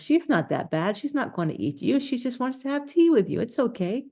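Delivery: calm the scared friends; reassuring. Retold or imitated. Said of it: "told all his friends".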